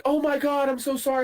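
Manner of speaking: high, flustered lady voice; mock high woman's voice; apologetic woman. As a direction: play the embarrassed dog owner.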